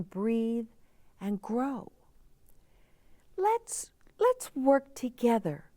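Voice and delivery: put-on young girl character. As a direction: play the worried little girl asking for help. Girl's closing pledge.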